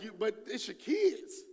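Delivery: ordinary talk, nothing marked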